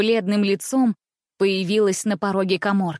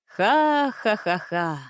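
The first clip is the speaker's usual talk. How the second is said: merry laugh; much slower than usual. A narrator's reading. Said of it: "весело вскричал он".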